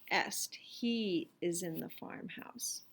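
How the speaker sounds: soft unvoiced whisper. Shown as a demonstration. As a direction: whisper it like a secret hint. Teacher whispers the gloss.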